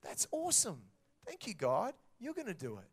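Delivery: thrilled. Retold or imitated. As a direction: burst out in delighted amazement at the news. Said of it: "And I was like".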